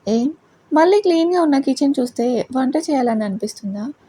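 dry mocking question, lightly voiced; sarcastic. Husband teasing wife about the clean kitchen, mildly sarcastic. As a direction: needle her with mild sarcasm. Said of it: "అని వెటకారంగా అంటాడు".

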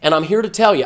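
loud, slow, heated push; really fired up, hammering the point home. Real, not acted. Fired up while lecturing his viewers, loud and slow. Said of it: "I get a little fired up".

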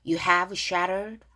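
very slow, evenly spaced lyric lines; pronunciation read-through. Shown as a demonstration. Teacher leading learners through the verse, slow read-along. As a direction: draw out each word, pausing between phrases. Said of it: "여기 발음 다시 한번 해볼게요".

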